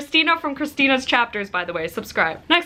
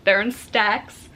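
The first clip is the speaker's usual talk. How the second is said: Chicago accent; slower than usual. Real, not acted. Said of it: "makes fun of my Chicago accent".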